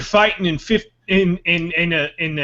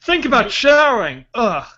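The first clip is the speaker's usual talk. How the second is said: mock disgust; 2 semitones higher than usual. Commissioner disgusted by smell.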